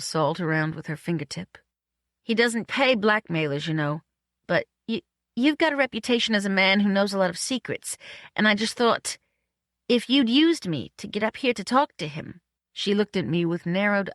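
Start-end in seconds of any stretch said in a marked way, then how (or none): 2.2-12.4 lightly voiced woman, a little higher; suspicious Marion. Woman warns possible blackmailer, lightly voiced suspicion. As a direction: feel out a suspicion, haltingly.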